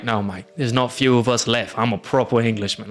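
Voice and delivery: imitated English cabbie's accent. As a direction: correct them in a put-on English accent. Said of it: "English accent".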